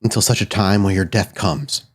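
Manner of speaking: measured, grave offer of a binding bargain; lightly voiced solemn figure. Spirit lays out terms of the binding, lightly voiced solemn figure. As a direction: state the terms with slight solemnity.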